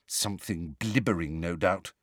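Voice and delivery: low, soft aside; under the breath. A narrator's reading. Hermione's aside after Luna's guess, under her breath. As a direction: drop it low and quiet, under your breath. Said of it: "said Hermione under her breath".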